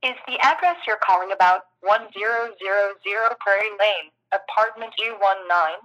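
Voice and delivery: phone menu voice. Real, not acted. Automated phone system prompt.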